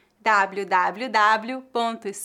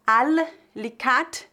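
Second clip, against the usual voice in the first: slow, careful Arabic-style al-likat; Arabic word; much slower than usual. Shown as a demonstration. Teacher sounding out the Arabic source word, slowly. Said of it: "eu não sei falar árabe".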